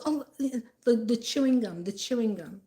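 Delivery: hint of her backpedaling; a touch of flustered excuse. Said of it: "she goes".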